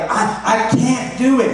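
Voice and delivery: mock whining kid; dad mimicking his daughter saying she can't; whiny child. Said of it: "She would be like".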